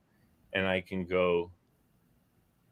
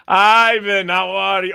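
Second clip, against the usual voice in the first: put-on old man voice; 9 semitones higher, 10 dB louder, slower than usual. Greeting Ivan in put-on voice.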